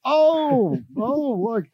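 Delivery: very high, swooping announcer voice; Steve Hartline radio impression. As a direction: parody an over-animated radio host. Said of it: "I was doing it".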